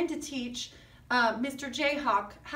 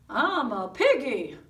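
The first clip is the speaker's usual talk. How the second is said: piggy voice; 4 semitones lower, 5 dB louder, slower than usual. Acted. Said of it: "good try, Mister Piggy".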